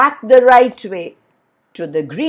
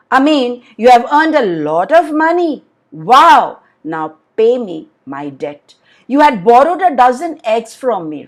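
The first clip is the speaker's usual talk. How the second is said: lightly voiced greedy businessman, a bit louder; a hint of a pushy lender claiming his due; 2 semitones higher, 5 dB louder than usual. Businessman demands his debt from Amin, lightly voiced greedy lender.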